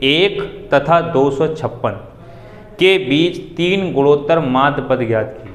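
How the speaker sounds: slow, measured dictation to a class; spaced-out words with pauses between phrases. Acted. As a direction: read it out phrase by phrase for note-takers. Dictates a question to students.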